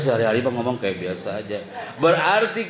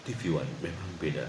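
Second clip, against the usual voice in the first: low, soft tagline read; deep announcer voice; 9 semitones lower, 12 dB quieter than usual. Shown as a demonstration. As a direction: deliver the slogan like a station ident. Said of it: "Nggak mungkin saya ngomongnya kayak gini". (suara penyiar yang berat dan pelan)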